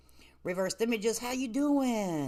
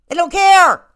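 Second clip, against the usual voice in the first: loud, higher burst of exasperation; loud outburst; 8 semitones higher, 16 dB louder than usual. Real, not acted. Host losing patience with a viewer, loud outburst. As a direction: blurt it out, fed up.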